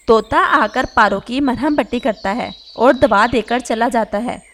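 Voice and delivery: usual speaking voice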